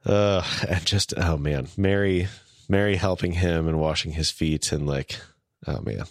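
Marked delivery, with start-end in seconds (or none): 5.7-6.0 tearing up. Real, not acted. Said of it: "I'm starting to cry".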